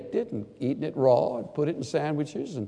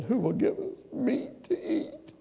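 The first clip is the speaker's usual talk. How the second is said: whiny complaint; 11 semitones higher, 7 dB quieter than usual. Acted. Quoting whining Israelites.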